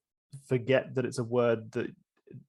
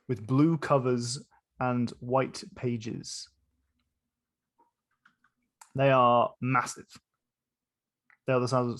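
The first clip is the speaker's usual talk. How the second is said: slow, spaced-out scene description; game master narration; slower than usual. A narrator's reading. Game master describing a giant tree to players, measured narration. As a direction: paint the scene slowly, pausing between phrases.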